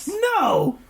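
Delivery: 1 mimicking baby. Baby yelling no.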